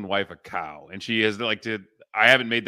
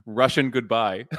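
put-on Russian accent; 4 dB louder, slower than usual. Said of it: "She's supposed to be Russian".

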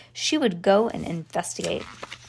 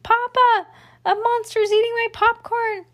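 put-on much higher, louder frightened child's scream; screaming small child; 14 semitones higher, 5 dB louder than usual. Child screams to his papa about the monster. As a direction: shriek it like a scared little kid calling his father. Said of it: "The small child screamed".

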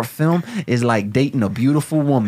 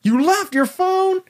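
high, slow, stunned disbelief; shocked disbelief; slower than usual. Acted. Friend hears the phone was left behind, high stunned disbelief. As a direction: stretch it out in total disbelief.

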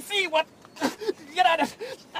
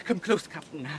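hushed, much softer and lower; whisper; 9 semitones lower, 7 dB quieter than usual. Acted. Prisoner confiding in the captain away from the bailie, hushed. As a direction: draw him close and murmur secretly. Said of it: "let me whisper to you".

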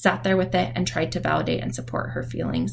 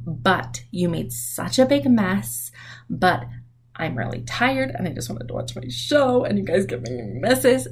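mock excuse-making. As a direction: act out a parent's complaining excuses. Acted excuse-making instead of apologizing.

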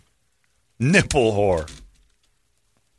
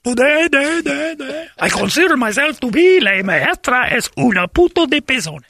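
Lou Gehrig stadium echo. Pretend. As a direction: speak with echoing stadium PA reverb. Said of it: "Like you're Lou Gehrig now".

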